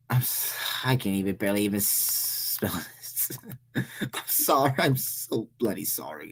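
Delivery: cracking up mid-sentence; low, helpless laughing apology; real stifled laughter. Real, not acted. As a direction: try to apologize through the giggles. Breaks up laughing while misreading.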